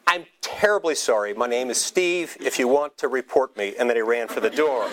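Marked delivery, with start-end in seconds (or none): 0.1-3.7 hurried breath. Retold or imitated. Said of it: "in one hurried breath".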